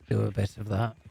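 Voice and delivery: chewing while talking; mouth full. Real, not acted. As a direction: talk through a mouthful of food. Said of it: "Why are you eating up there? I can hear you chewing".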